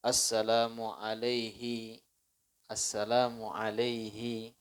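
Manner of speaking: quiet example of what not to say; wrong salam demo. Shown as a demonstration. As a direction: recite the invalid alaihi version slowly and softly. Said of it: "nggak sah sholat".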